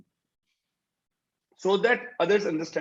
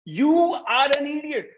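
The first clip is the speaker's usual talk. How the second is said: higher, angry repeat of the insult; harsh raised voice; 6 semitones higher than usual. Shown as a demonstration. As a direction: spit it out again, sharp and high. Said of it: "When you raise your voice".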